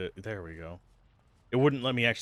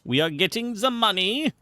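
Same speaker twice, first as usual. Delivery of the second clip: greedy glee; 10 semitones higher, 4 dB louder than usual. Pretend. Greedy chant over money.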